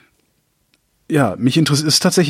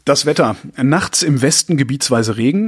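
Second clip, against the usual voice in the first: weather forecast read. Acted.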